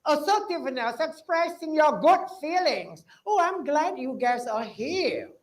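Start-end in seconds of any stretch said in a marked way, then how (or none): 3.3-5.4 slow, gently pleased welcome to students; glad greeting. Shown as a demonstration. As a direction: greet the class like you mean it. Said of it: "Say that every day".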